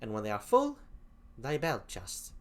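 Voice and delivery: put-on lightly done English accent; half-hearted English accent. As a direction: read it in a shaky English accent. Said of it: "I apologize for the crappy English accent".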